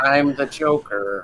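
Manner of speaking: slow, drawn-out drawl with heavy vocal fry. Podcast guest asked to redo a Joker impression, doing a Joker impression. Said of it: "they're like".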